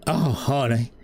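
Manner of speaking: lightly voiced sassy mother cat; a motherly cat pitying the newcomer; Fat Martha. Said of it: "Fat Martha ... she goes".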